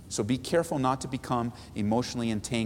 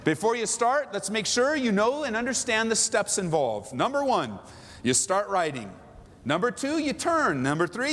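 higher, step-by-step commanding instruction; take-charge leader; 5 semitones higher than usual. Shown as a demonstration. Pastor voicing a leader instructing Mary, commanding. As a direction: lay out the steps in order. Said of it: "might say".

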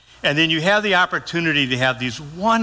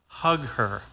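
quiet urging; 3 semitones lower, 7 dB quieter than usual. Retold or imitated. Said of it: "Vicki leaned over to me".

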